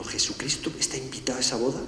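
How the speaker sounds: soft whispered challenge; whispered question. Retold or imitated. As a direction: breathe the question out, barely voiced. Pointed question to a friend. (pregunta susurrada con intención)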